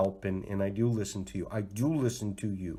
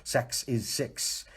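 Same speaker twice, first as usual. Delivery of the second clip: very slow, drawn-out wordplay; slow, teasing pun delivery; much slower than usual. Shown as a demonstration. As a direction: savor each word slowly. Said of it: "talking about sick sex".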